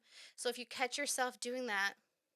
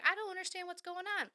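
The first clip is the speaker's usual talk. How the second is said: clueless whine; 8 semitones higher, faster than usual. Retold or imitated. Imitating the clueless complainer.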